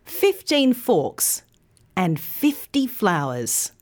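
put-on thirteen with teen long, thirty with thir long; contrast stress. Shown as a demonstration. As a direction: make thirteen and thirty clearly different. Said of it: "say it with me".

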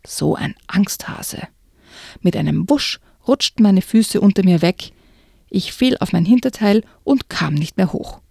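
hushed, suspenseful reading aloud; story narration. A narrator's reading. Narrator reading a spooky book excerpt to the listener, suspenseful. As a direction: read it like a creepy tale, drawing them in.

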